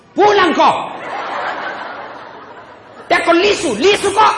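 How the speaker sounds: wife shouting down the phone; demanding wife. Retold or imitated. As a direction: order him home.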